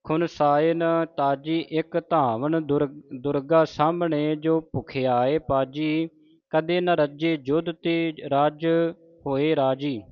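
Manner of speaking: measured chanting of the verse; scripture recitation. Shown as a demonstration. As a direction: recite steadily, phrase by phrase.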